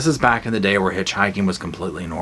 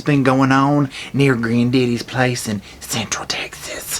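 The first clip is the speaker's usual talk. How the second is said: hushed spooky whisper; eerie whisper; 2 semitones higher, slower than usual. Acted. Horror vlogger whispering the setting, eerie. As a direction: whisper it like a campfire tale.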